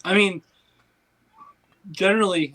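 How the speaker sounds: speaking through hiccups. Real, not acted. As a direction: talk while hiccuping. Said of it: "I have the hiccups".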